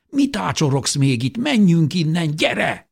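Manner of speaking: high-pitched, rising urgency; frantic urging. A narrator's reading. Brother drags his stunned twin away, frantic urging. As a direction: hurry them out, pitch climbing.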